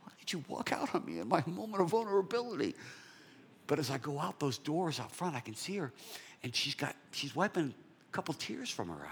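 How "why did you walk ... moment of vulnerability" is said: a little pissed. Retold or imitated. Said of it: "I'm kinda a little pissed".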